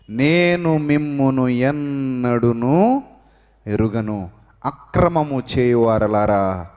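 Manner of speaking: slow, low, measured rejection; God's stern reply. Retold or imitated. God tells the claimants he never knew them, slow and low. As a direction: turn them away slowly, word by word.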